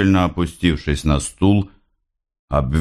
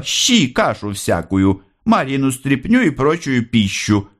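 smiling; 7 semitones higher than usual. A narrator's reading. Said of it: "улыбаясь".

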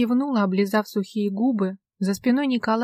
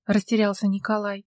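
plain reading voice

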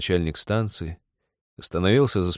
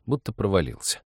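ordinary delivery, nothing marked

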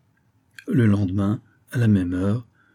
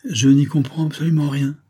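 put-on raised, mildly astonished boy's reply; understated bewilderment in a higher voice; 6 semitones higher, 4 dB louder than usual. A narrator's reading. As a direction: sound baffled, pitched up. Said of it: "L'apprenti était ébahi".

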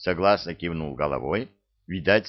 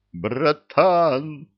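higher, louder cry of despair; anguished shout; 7 semitones higher, 5 dB louder than usual. A narrator's reading. Ivan despairing over his lost brother, anguished shout. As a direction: shout out clutching your head. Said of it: "закричал Иван".

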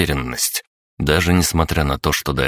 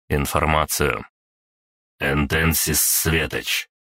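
system interface voice. Acted. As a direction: read it like a calm machine display.

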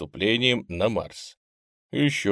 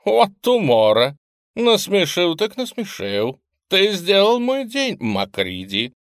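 delighted laughing praise; 10 semitones higher, 5 dB louder, slower than usual. A narrator's reading. AI still laughing at joke.

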